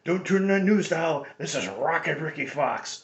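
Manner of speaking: a light imitation of a fifties radio man; old radio announcer. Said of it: "He was like".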